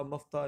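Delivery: مفتاح with short a, maftah; wrong pronunciation. Shown as a demonstration. Teacher rules out another reading, deliberate mispronunciation. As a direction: open مفتاح with maf-. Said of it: "مفتاح نہیں ہوتا".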